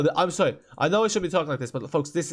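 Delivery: ordinary talk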